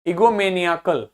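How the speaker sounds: ईगोमेनियाकल as one word, stressed on निया; निया standing out within an unbroken ईगोमेनियाकल. Shown as a demonstration. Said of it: "निया अलग से सुनाई दे रहा".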